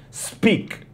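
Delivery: Speak, with the k stopped early; clipped final k. Shown as a demonstration. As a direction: barely release the k in Speak. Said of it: "interrompe o som do K um pouco antes".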